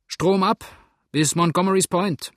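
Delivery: high, loud shouted answer; calling back. A narrator's reading. Steersman answering the man ashore, loud high call. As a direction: call it across the water.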